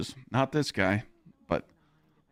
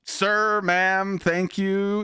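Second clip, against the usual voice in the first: mock polite; 7 semitones higher, 3 dB louder, much slower than usual. Acting out proper courtesy.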